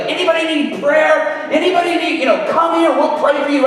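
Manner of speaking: loud, high street-preacher call; eager evangelist hollering at bystanders. Retold or imitated. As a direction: shout offers of prayer to a crime scene. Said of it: "throw open the doors and be like".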